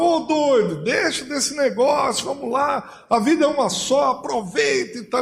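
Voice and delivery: high, coaxing and mocking; lightly voiced scoffer; a touch of a neighbour urging fun; teasing neighbour. Neighbours urging Noah to party.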